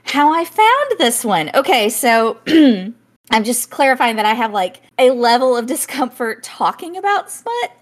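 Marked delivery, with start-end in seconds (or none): 3.3-7.7 embarrassed, pitch creeping up toward the end; awkward confession, rising in pitch; voice climbing higher. Real, not acted. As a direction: get squeakier as the discomfort grows. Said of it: "As her voice goes up higher and higher".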